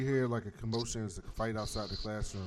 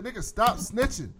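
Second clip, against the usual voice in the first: high, loud, indignant protest; exasperated scolding; 8 semitones higher, 9 dB louder than usual. Retold or imitated. Host recapping her objection to Gamby telling parents, exasperated. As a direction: scold him with raised pitch, fed up.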